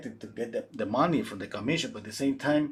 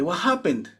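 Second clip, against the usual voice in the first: higher, louder, calling someone over; excited call; 10 semitones higher, 5 dB louder than usual. Retold or imitated. Daughter calls her mother to the portrait, excited. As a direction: get mom to look now.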